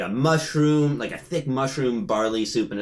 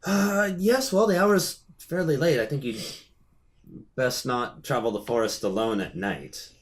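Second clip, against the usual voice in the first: lightly voiced host. Game master voices the host.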